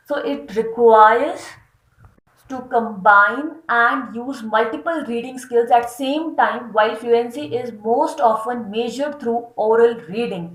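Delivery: slow, deliberate reading of a definition; slow dictation read. Acted. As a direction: dictate it slowly for notes. Reads text slowly. (धीमे-धीमे परिभाषा पढ़ना)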